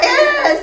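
high, loud hammed-up cry of frustration; a cartoon kid's upset yelp; mock frustrated wail. Mom imitating her upset daughter, mock frustrated wail.

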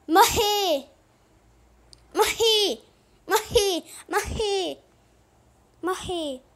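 high, loud repeated yelp; mock death cry. Gamer announces own death, high mock cry. Mock lament on dying in game.

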